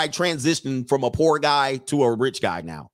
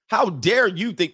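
slow, raised indignant challenge in own voice; indignant woman; 5 semitones higher, slower than usual. Acted. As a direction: start an outraged telling-off. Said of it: "wait, she'd be like".

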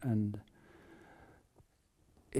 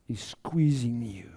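slow whisper; slower than usual. Acted. Preaching on hard circumstances.

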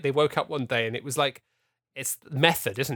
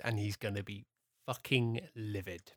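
laughing through gritted teeth; 2 semitones lower, 11 dB quieter than usual. Pretend. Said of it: "That's how he'll sound when he's trying to laugh through gritted".

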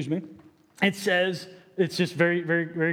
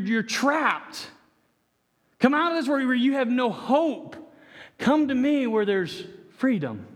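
rising, intense pleading call; impassioned preaching; 3 semitones higher than usual. Acted. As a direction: plead with them to come out.

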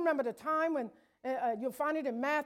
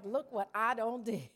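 a light hint of a proud boast, softer; mock-brag it, grinning; bragging; 2 semitones lower, 4 dB quieter than usual. The Lord bragging about his children, lightly voiced boast.

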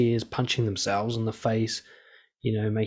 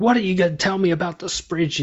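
mock annoyed coworker; 7 semitones higher, 4 dB louder than usual. Coworker having a go in meeting.

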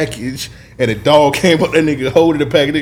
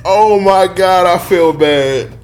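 after laughing hard; 4 semitones higher, slower than usual. Real, not acted. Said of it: "Why are you laughing at that?".

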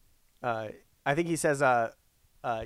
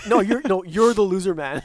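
bad acting; 4 semitones higher, 7 dB louder than usual. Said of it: "he delivers it like classic eighties line".

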